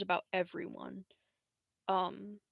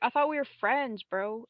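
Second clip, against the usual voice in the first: hurt protest; 4 semitones higher, 6 dB louder than usual. Retold or imitated. Acted hurt plea to former friend.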